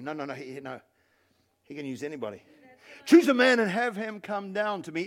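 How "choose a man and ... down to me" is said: declaimed challenge, strongest at the start; preacher's moderately raised giant voice; Goliath's shouted challenge. Acted. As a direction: call out a dare to the army. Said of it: "He shouted".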